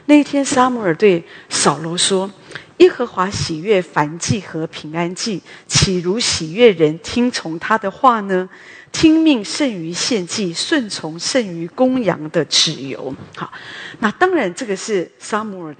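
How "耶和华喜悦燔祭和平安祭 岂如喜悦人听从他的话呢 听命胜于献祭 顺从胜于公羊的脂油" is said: slow, weighty recitation; solemn scripture reading. Acted. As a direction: read the verse slowly like a rebuke. Quotes Samuel's rebuke slowly. (缓慢庄重地诵读经文)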